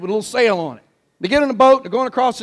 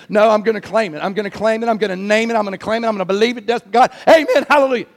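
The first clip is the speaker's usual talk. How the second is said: lightly mocked faith-claimer; faster than usual. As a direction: lightly mimic a believer claiming it over and over. Mimics insistent claim-it believer.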